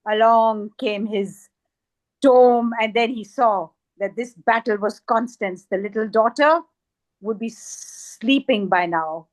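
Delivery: dramatic, emphatic verse reading; poetry recitation. Acted. Poet reads a poem about a Kathakali dancer, dramatic recitation. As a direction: recite the story with weight on vivid words.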